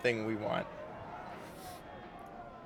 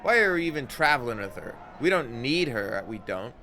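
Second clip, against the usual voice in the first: gruff Anna; 2 semitones higher, 4 dB louder than usual. Acted. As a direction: snap back at the party, irritated. Anna complains about companion.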